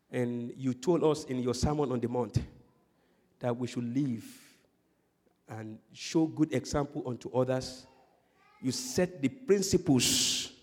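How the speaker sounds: low, soft, measured prayer. Real, not acted. Pastor leads the congregation in closing prayer, low and soft prayer. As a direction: pray quietly, pausing between phrases.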